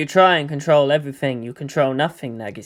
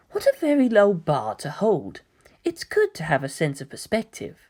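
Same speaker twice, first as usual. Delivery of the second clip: quiet musing; 2 semitones lower, 6 dB quieter than usual. Acted. Kaoru musing quietly, disdainful.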